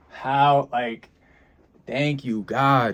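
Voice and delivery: high, loud rush of thanks; bursting with thankfulness toward God; overjoyed gratitude. Real, not acted. Editor gushing thanks to God for her job, overjoyed.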